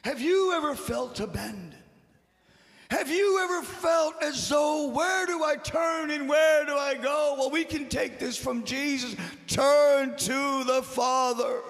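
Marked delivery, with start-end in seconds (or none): 2.9-11.6 full-force preaching. Real, not acted. Preacher assures congregation they are never alone, impassioned shouting. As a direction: build and ring out like a revival preacher.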